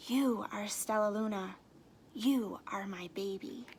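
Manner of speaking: tender whisper, soft. Acted. Mother Bat whispers to her found baby. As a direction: breathe it to your lost child. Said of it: "she whispered".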